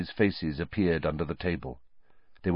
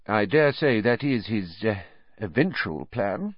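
hedging minister dodging the point; evasively; 4 semitones higher than usual. Acted. Minister dodges the landlady's question, evasive. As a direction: sidestep the question with a pause. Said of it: "said Fudge evasively".

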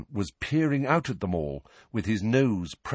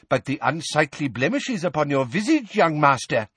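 put-on high, theatrical old-world healer; medieval wizard; 6 semitones higher than usual. A narrator's reading. Portrait healer pointing out blemishes, high medieval wizard. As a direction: press the diagnosis in a lofty put-on voice.

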